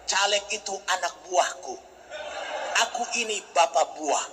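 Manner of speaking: calm, easy boast; relaxed. Retold or imitated. Preacher answering a stranger on the plane, relaxed. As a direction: answer coolly and casually. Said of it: "jawab dengan santai".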